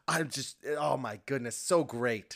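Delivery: lightly imitated ecstatic toll worker; gush, overjoyed, as the happy worker. Toll worker thrilled about giving quarters, ecstatic. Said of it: "just ecstatic, so happy".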